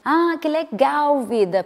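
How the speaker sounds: gentle cheerful; sweet tone. Shown as a demonstration. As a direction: sound delighted for him. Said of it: "você possa falar assim com ele".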